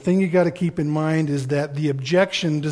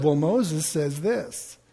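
Paul's retort; 4 dB quieter, slower than usual. Retold or imitated. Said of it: "Paul comes back".

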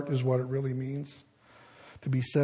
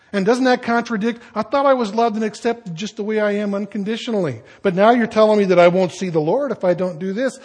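lightly voiced protesting listener, higher and quicker; mock objection; 4 semitones higher, 4 dB louder, faster than usual. Preacher voices a doubter of unconditional acceptance, lightly protesting. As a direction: rush out a puzzled objection.

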